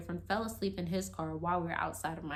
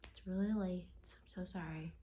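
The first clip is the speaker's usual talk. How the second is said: hushed apology trailing into a whisper; gentle apology; 5 dB quieter than usual. Retold or imitated. Girlfriend apologizing to sleeping boyfriend, gently. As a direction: softly coax a sleeper, dropping to a whisper. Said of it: "gently woke up my boyfriend".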